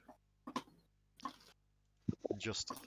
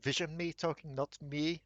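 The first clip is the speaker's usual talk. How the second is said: whiny high voice; 5 semitones higher, 15 dB louder than usual. Acted. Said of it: "Dominor's there going".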